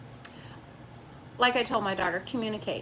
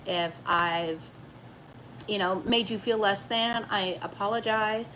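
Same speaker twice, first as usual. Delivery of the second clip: emotional apology; 3 semitones lower than usual. Retold or imitated. Wife apologizing to her husband for how she acts, emotional. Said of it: "I'm getting all emotional about it".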